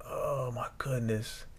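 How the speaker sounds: hushed, breathless whisper of shock; whispered dismay. Retold or imitated. Reading the contract's fine print, whispered dismay. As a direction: breathe it out like you just saw the catch.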